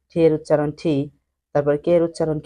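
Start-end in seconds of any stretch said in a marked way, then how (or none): 0.8-0.9 ঠি with a puff of air after the T; aspirated T. Shown as a demonstration. Teacher showing learners the letter's pronunciation, aspirated T. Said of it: "এই উচ্চারণগুলো একটু ভিন্নভাবে করা".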